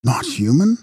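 high, rising echo of disbelief; incredulous question. A narrator's reading. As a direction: question it with pitch shooting up. Henry echoes in disbelief.

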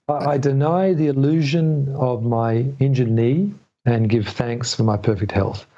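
said slowly, word by word; slow, deliberate mantra. Shown as a demonstration. Repeating his mantra slowly for the listener. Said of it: "Can you say that again?".

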